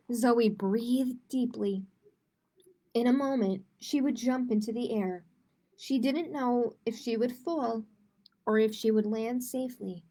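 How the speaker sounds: put-on lively storybook reading for kids; reading to children. A narrator's reading. Teacher reading a picture book to kids, animated storytelling. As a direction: read it like story time with children.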